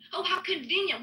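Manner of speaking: sarcasm leaned on "convenient"; sarcastic jab said twice. Real, not acted. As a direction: lean into "convenient" with scorn.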